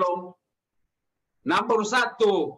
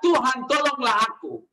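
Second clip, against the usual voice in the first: mildly raised plea, no full shout; retold cry for help; 2 semitones higher than usual. Preacher voices sinking Peter calling the Lord, mild imitated cry for help. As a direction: call out for help, only half acted. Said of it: "dan dia teriak".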